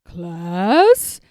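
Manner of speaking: loud teacher call to the class. A narrator's reading. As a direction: call the class to order, loudly. Teacher calling class to attention.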